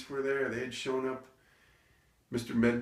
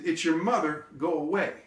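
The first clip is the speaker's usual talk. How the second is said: raised, higher voice through a door; mother shooing son; 7 semitones higher, 5 dB louder than usual. Retold or imitated. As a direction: send the kid away loudly.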